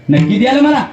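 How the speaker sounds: high pleading wife's voice; coaxing wife. Acted. Wife pleading with husband for a promise, high and coaxing. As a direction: wheedle like a coaxing young wife.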